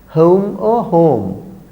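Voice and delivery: HOME said slowly two ways, gliding OH-oo first, then plain long vowel; contrasting vowel sounds. Shown as a demonstration. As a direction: draw out both HOMEs to contrast glide and pure vowel. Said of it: "The correct pronunciation is o".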